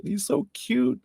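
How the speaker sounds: squeaky high gush over a puppy. Real, not acted. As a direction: coo it way up high. Gushing about puppy.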